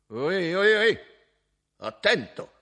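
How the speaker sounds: loud, high cries of alarm; alarmed shout. Acted. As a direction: yelp as the razor nears. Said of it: "Gridò Cavaliov".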